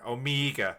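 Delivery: "Omega" said as "oh-MEE-ga"; echoed mock pronunciation. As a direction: copy the accent, Omega with a long ee. Echoes co-host's mock accent.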